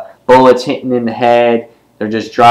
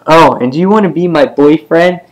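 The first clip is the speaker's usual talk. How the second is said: put-on little girl voice; 6 semitones higher than usual. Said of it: "Sophia says".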